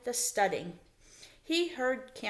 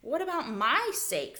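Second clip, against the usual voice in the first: higher, indignant stress on MY; 6 semitones higher than usual. A narrator's reading. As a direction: protest with mild indignation. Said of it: "thought Ralph indignantly".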